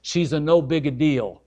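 a quick mock Italian accent; playful fake Italian accent. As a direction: toss off a hammed-up Italian accent line. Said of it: "let me get a little Italian on you".

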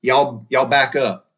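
slow, loud order to the crowd; firm command. Retold or imitated. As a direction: say it slowly and loudly, like a father taking charge. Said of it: "Bob Daniels literally said".

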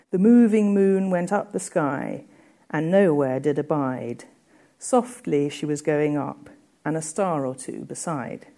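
gentle verse reading, easing off at the end; reciting the moon stanza to students; poem reading. Acted. Reads stanza aloud.

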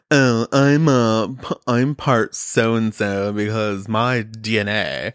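put-on slow, laughing valley girl drawl. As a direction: ham up a ditzy valley girl. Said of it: "your D N A voice like a Valley Girl".

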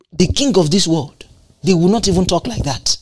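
normal talking voice

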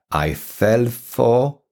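"for" left hanging on a rise, unfinished; slow "I fell for", stopping as if mid-sentence. Shown as a demonstration. Teacher showing a sentence needs its object, left hanging. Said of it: "we can't stop now".

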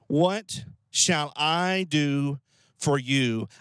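slow, pondering offer of help; thoughtful question. Shown as a demonstration. Prophet considering how to help the widow, thoughtful and slow. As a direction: ask it slowly, thinking it through. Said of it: "Almost asking a question".

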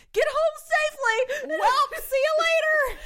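high, drawn-out mock-polite goodbye; cheery farewell call. Driver calls goodbye to the woman she bumped, mock-cheery.

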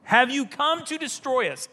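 a hint of a demon crying out; evil spirit. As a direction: challenge him in alarm, mildly acted. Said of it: "these evil spirits".

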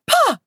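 sharp high "Pa!" like a startled caveman; mock thunder shriek. Ancestor startled by a thunderstorm, sharp shriek. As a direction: shriek it out like thunder scared you. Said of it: "they make a sound like".

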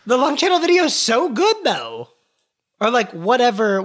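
high, loud gushing; excited praise. Real, not acted. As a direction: gush about it with delight. Gushing praise of friend's video.

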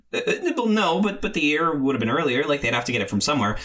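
haltingly pushing back; flustered objection. Retold or imitated. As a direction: stumble into a protest. Teller acts own flustered reply.

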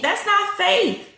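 NOT stretched high and slow in that's not faith; emphatic preaching. Real, not acted. Preacher correcting the congregation, emphatic high slow not. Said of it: "preacher hammers the point".

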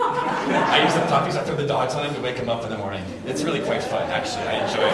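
giggling as he confesses the prank; laughing while talking. Real, not acted. Pastor laughing while telling prank.

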